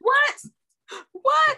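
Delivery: very high, loud what; startled high what, twice; calling out. Real, not acted. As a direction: call out to check someone's there. Checking the call connection.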